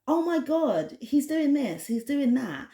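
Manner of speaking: mock the gossips gasping over him; breathless gossip mimicry; gossiping people. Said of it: "people are like".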